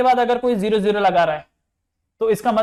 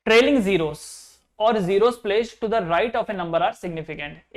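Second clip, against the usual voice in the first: slow dictation; much slower than usual. Shown as a demonstration. Teacher dictating a rule to students, very slow and even. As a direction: read the rule out very slowly, word by word. Rule read again for notes.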